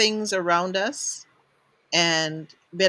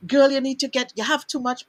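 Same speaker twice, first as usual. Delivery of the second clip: self-scolding; 6 semitones higher, 4 dB louder, faster than usual. Retold or imitated. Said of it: "criticize myself and go".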